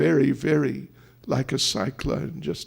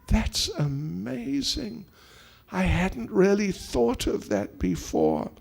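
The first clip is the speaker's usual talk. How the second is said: soft, lightly acted amazement; dawning realisation; 3 semitones higher, 4 dB quieter than usual. Krishna learning how much devotees love him, quiet amazement. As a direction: marvel quietly as it sinks in. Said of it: "it was really quite an eye-opening experience".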